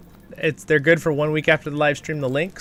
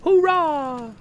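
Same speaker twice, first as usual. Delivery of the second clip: elf voice cheer. Retold or imitated. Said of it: "That's about it for the elf voice".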